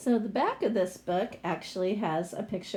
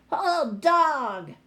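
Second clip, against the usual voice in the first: high squeaky troll voice, loud; bossy little troll ordering; troll demand; 7 semitones higher, 7 dB louder than usual. Acted. Greedy troll ordering the girl to hold the dog, high and squeaky. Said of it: "they cried".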